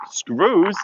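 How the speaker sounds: retold baffled "come again?"; incredulous echo. Skater retelling her reply to a stranger, incredulous.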